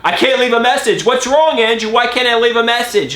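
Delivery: high whiny mock mother; fretting mom. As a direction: imitate mom's panic at the full voicemail. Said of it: "I'm like".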